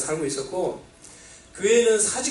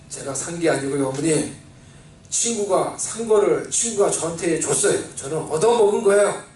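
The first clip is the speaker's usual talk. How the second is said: calm explanation; 2 semitones lower than usual. Retold or imitated. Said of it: "마음을 차분하게 먹고".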